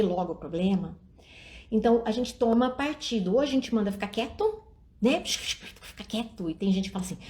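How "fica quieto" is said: slow whispered shush; hushing a child. Shown as a demonstration. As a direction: whisper it slowly, telling the kid to hush. Telling a child to hush.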